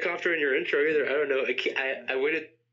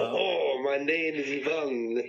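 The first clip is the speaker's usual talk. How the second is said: put-on Russian accent; much slower than usual. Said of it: "Russian impression".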